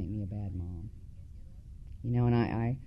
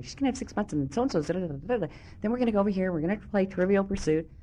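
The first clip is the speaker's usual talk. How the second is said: excited higher-pitched rambling, trailing into da-da-da; 7 semitones higher, faster than usual. Retold or imitated. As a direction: gush on and on to your sponsor. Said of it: "I went on and on".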